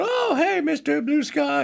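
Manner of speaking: high, lightly voiced little tree creature, blissfully dreamy; Baby Groot listening to music. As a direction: hum it out like a carefree little Groot lost in his headphones. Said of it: "And he's just going".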